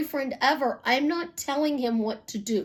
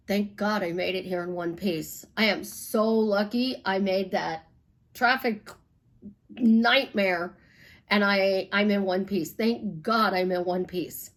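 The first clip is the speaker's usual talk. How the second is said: relieved sigh of thanks; 5 semitones lower than usual. Retold or imitated. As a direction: breathe out the relief of arriving safe. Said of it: "I go".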